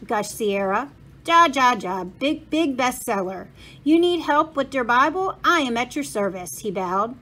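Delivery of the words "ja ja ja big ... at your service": put-on eager, proud German-accented helper. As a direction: boast and bow with a thick German accent. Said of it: "said a man with a thick German accent".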